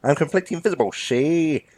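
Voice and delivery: put-on comic crook, drawn-out dismissal; cocky bank robber. Invisible-believing robber to bank clerk, cocky comic insistence. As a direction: brush the clerk off with foolish confidence.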